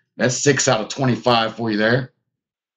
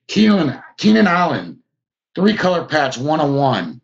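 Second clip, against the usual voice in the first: excited reveal; 5 semitones higher than usual. Real, not acted. Card breaker shouting out a big pull to viewers, excited. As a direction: call out the big hit like you can't believe it. Pulling a big hit live.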